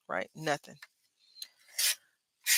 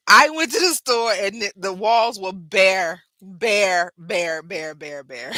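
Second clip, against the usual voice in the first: laughing tale; 2 semitones higher, 6 dB louder, slower than usual. Real, not acted. Laughing about bare walls.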